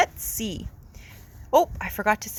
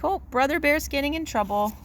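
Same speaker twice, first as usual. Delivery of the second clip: sneaky sister. Acted. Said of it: "a little bit of a sneaky smile".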